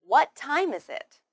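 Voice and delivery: "What time is it" as one linked, falling question; stress on WHAT, TIME. Shown as a demonstration. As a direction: lean on "What" and "time", then fall on "is it". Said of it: "we stress what and time".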